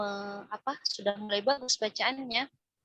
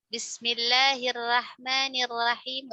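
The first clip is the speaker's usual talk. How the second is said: Minang accent; much slower than usual. Shown as a demonstration. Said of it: "Atau orang Minang".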